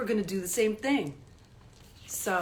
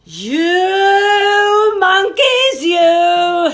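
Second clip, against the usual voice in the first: slow, sing-song scolding, higher and louder; scolding peddler; 8 semitones higher, 12 dB louder, much slower than usual. Acted. Peddler scolding the monkeys up in the tree, sing-song telling-off. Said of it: "he said, shaking his finger at them".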